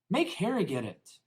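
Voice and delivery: high, loud spoiled whine; high loud spoiled son; whiny boy. A narrator's reading. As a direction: push the chore off. Dudley whining back.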